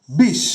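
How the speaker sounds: "বিষ" drawn out slowly, then stopped; closed syllable. Shown as a demonstration. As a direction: end "বিষ" firmly on the sh. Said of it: "সেটা তো আর continue হচ্ছে না". ("বিষ" ধীরে বলে শেষে থেমে)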